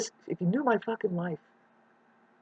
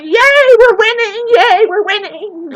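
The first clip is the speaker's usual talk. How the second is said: shrill mock cheering, much higher and louder; 15 dB louder, slower than usual. Vlogger mocks the jolly winners stomping people down, higher and louder. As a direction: cheer like a gloating fool.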